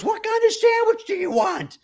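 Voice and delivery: hammed-up shouted order; imitating a woman bellowing; mock yell. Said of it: "at the top of her lungs".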